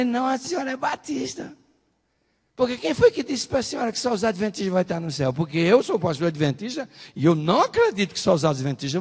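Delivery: high-pitched retold arguing; insistent retort. Retold insistent argument with woman. (réplica insistente, em tom agudo)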